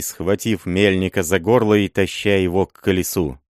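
ordinary delivery

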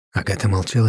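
usual speaking voice

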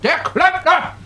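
strained reply. Acted. Plumber answering, strained.

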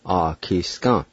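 "Ah, kiskan" in measured syllables, ah-kees-kah; "Ah, kiskan" with a held first vowel; careful pronunciation demo. Shown as a demonstration. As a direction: model "Ah, kiskan" for learners. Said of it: "I'll pronounce these words one more time".

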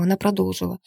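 usual speaking voice

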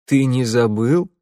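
slow, gentle, surprised question; warm surprise. Acted. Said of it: "тепло удивился мужчина".

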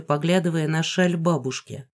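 ordinary delivery, nothing marked

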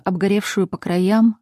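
usual speaking voice

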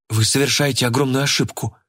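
plain reading voice

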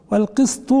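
والقسط with an i after the qaf, "qist"; kasra on the qaf. Shown as a demonstration. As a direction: say والقسط as "al-qistu". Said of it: "بكسر القاف".

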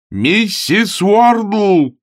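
very slow, very high bellowed name; window-rattling yell. Acted. Augustine bellows for the landlady, dragging the name out. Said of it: "завопил он так, что затряслись окна".

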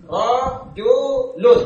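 rojulun stretched very slowly, each sound held long; slow drawn out. Shown as a demonstration. Teacher drawing out rojulun slowly for the students. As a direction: draw out rojulun syllable by syllable. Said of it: "Misalnya saya katakan rojulun".

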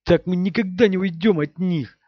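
despairing. Acted. Matt's despairing outburst.

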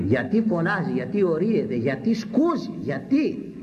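mimicked complaint, climbing in pitch; complaining critics. Critics asking why the old preacher shouts, imitated complaint. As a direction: imitate grumblers piling up their questions. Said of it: "Γιατί φωνάζει αυτός, ο παλιόγερος".

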